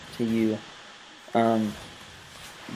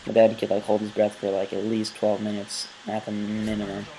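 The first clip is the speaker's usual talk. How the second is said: deadpan a tall tale with a wink; sarcastic. Pretend. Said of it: "obviously being sarcastic".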